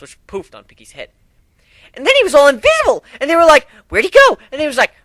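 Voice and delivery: high, loud, breathless storytelling; excited retelling. Acted. Piggy reenacting the dragon fight for friends, high and loud. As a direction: tell the battle like an excited kid.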